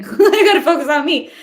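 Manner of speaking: laughing while she talks; words bubbling with laughter. Real, not acted. Laughing through quoted self-talk.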